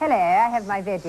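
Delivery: playful mock-British greeting; imitated British accent. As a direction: mimic the British "veggies" with relish. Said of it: "I love the way they say that".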